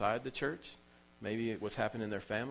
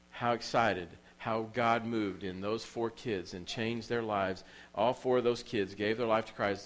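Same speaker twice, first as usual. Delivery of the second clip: excited preaching; 3 dB louder than usual. Real, not acted.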